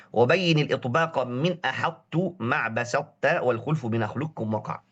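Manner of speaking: chanted tajwid recitation of the line; Quranic verse recitation. Shown as a demonstration. Teacher reciting the verse to students, chanted.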